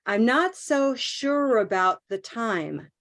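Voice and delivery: "not" held long and linked; stress on NOT. Shown as a demonstration. Teacher modelling phrase for student, stress on not. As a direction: lean on "not", keep the rest flowing. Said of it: "the stress is the time that's long".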